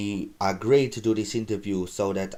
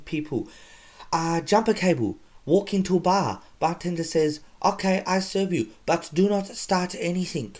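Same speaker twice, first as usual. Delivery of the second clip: much higher, goofy put-on comic voice; Dumfing character voice; 9 semitones higher than usual. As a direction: play a self-proclaimed comedian who is not funny. Host voices his Dumfing character.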